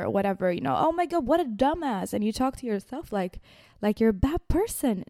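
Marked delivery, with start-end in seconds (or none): 0.8-2.1 mock self-insult. Imitating harsh self-talk.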